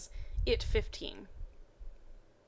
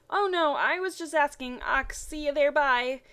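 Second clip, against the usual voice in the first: fast; 5 semitones higher, 5 dB louder than usual. Acted. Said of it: "Ash said fast".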